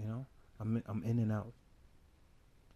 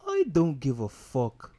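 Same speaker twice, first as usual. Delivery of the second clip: loud boast; 4 semitones higher, 9 dB louder, slower than usual. Acted. Loud slow persona boast.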